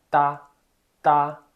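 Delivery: tá like the t of tatu, no puff; hard clean t with no breath; unaspirated ta. Shown as a demonstration. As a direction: Mandarin da. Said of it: "como se fosse T de tatu".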